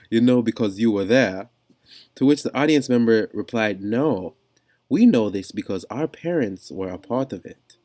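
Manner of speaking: put-on not very convincing British accent; amateur mock-British reading; bad British accent. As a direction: attempt a British accent and miss. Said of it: "This is not a very good British accent".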